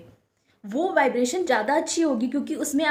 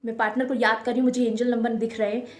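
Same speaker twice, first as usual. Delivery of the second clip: excited viewer thought; 2 semitones lower, faster than usual. Retold or imitated. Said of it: "आप सोचोगे".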